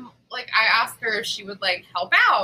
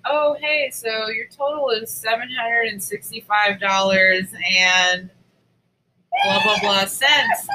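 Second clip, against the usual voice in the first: bright cashier patter that ends in a rising shout on blah; mock cashier voice. Mimics herself as the cashier.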